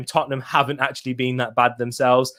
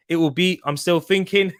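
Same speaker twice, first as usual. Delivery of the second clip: badly attempted Teesside accent; 3 semitones higher than usual. Shown as a demonstration. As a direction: have a shaky go at Teesside, drifting towards Scottish. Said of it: "in a Teesside accent".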